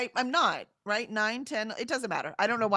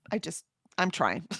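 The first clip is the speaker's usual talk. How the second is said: laughing; 5 semitones lower than usual. Real, not acted. Laughs at herself.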